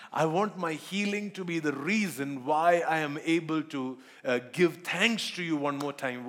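earnest pleading prayer, slightly slowed; heartfelt prayer. Acted. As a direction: pray it aloud to God, sincerely. Preacher voices a healing prayer.

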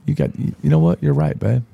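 suddenly convinced and fired up; excited agreement. Retold or imitated. Telling his wife she's right, excited. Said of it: "I said".

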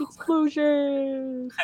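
slow, drawn-out whisper; whispered explosions. Pretend. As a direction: breathe the word like a secret. Mocking Michael Bay's explosions.

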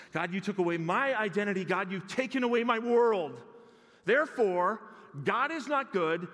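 builds from plain to a high, loud outburst; a sulking prophet winding up into fury; Jonah's rising complaint. Acted. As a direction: climb with each line until he explodes.

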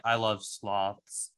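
slow, flat deadpan delivery. Retold or imitated. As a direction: say it totally deadpan, slowly. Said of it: "in a really deadpan voice".

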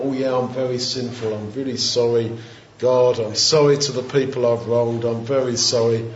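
low-pitched, mock-contrite apology; very humble. Sinner brought down small apologises to God, very humble. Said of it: "Very humble".

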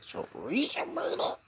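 hushed doubtful whisper with a rising question; a whispered mock aside at a cookout; skeptical whisper. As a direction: mutter your suspicion under your breath.

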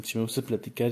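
ordinary talk

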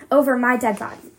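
loud, hard refusal, stress on over; angry refusal. Acted. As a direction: slam the door on the idea. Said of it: "Uma spits out".

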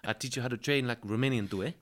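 put-on light Romanian accent in broken English, friendly; a mates' invite to the gym, lightly done in a Romanian accent; Bogdan's Romanian accent. Romanian teammate Bogdan inviting him to train, in a light Romanian accent. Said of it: "he talks like this".

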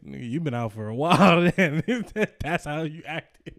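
laughing through a quote. Retold or imitated. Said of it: "He's like".

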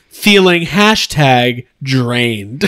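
slow, low, deflated drawl; reading a fan's moan in a drooping voice; mock mopey reading. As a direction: drag it out slowly like a sulking fan. Reading a fan comment mockingly.

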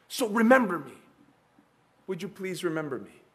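implore, then soften; dying thief asking Jesus to remember him, pleading. Acted. Thief's final plea.

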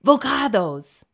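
a lightly faked Hispanic accent on the bar's name; feigned Hispanic accent. A narrator's reading. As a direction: put on a mock Hispanic accent for "Vocados". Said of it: "pronounces it with a feigned Hispanic accent".

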